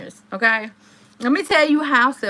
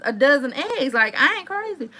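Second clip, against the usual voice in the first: usual speaking voice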